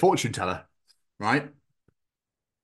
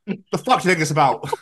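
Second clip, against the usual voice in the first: laughing exasperated; 4 semitones higher, 4 dB louder than usual. Retold or imitated. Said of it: "Text message conversation".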